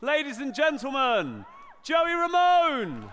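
big emcee intro rising to a shout; showy stage introduction. Pretend. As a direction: hype the act like a ringside announcer. Introducing an act to the crowd.

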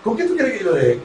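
lightly voiced host joking on air; imitating Tommy Melo. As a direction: drag out the double meaning, amused. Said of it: "decía Tommy Melo".

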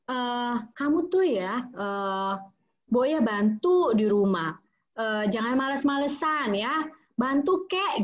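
a naggy mom demanding help; nagging scold. Shown as a demonstration. Mother nagging child to help at home, mild scold. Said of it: "cenderung akan, akan begini ya".

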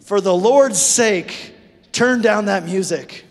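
loud, slow scolding; mock-annoyed demand; exasperated parent. Parent yelling about loud music, mock exasperated. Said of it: "We say".

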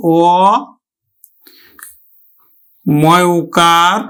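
অ, then ময় উকার drawn out slow; spelled out slowly. Shown as a demonstration. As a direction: spell the vowel signs slowly. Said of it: "উচ্চারণ করব কিন্তু". (ধীরে বানান করে বলা)

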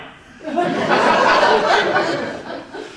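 loud, high burst of laughter. Real, not acted. Recalling Ken shaking like a leaf, high loud laughter. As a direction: laugh hard at the punchline.

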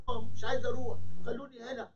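high-pitched mock wailing refusal; whiny, high acted protest; tearful pleading. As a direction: beg to stay, acting upset. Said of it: "وقعد يعيط".

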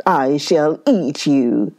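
lightly voiced growling tiger; a touch of menace, tiger to prey; a hint of a growling tiger. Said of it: "growled the tiger".

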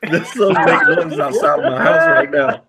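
high-pitched, talking through laughter; laughing alarm. Real, not acted. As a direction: laugh while reporting a real scare. Laughing over noise outside.

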